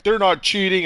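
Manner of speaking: retold protest. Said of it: "People are like".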